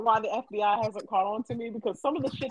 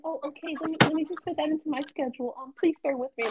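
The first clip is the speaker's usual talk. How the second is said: eager, accommodating, a bit higher; mock people-pleasing; 5 semitones higher than usual. Imitating her old self pleasing people, eager and accommodating. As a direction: bend over backwards politely. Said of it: "me a year ago, I'd be like".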